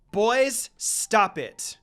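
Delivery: scolding call. Acted. Breaking up the fight.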